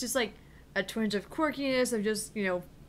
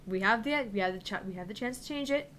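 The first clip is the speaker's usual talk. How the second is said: BBC documentary voice; 5 dB quieter, faster than usual. Retold or imitated. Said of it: "documentary program on the B B C".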